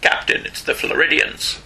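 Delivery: slow, hushed sci-fi crew report; Star Trek officer. Pretend. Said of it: "Always sounds like an alien in Star Trek".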